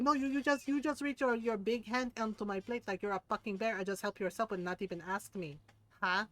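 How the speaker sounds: scolding in an imitated Filipino accent; Filipino mom accent. Mom scolds a rude food-grabber, imitated Filipino accent. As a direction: put on a Filipino mother's accent, indignant.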